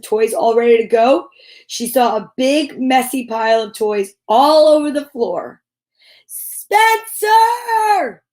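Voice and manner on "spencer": high, loud angry yell of the name; loud exasperated mother's scream. Acted. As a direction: yell for him like a mom who's had enough. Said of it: "she screamed".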